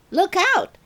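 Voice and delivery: put-on a kid jeering at a clumsy classmate; mocking shout. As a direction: tease her loudly as she walks in. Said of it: "Rob Mason said".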